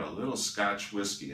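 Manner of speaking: "little" picked out with emphasis; stress on little. Real, not acted. Health lecturer allowing some whiskey, stress on "little". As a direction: put the weight on "little". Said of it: "I'm emphasizing the word little here".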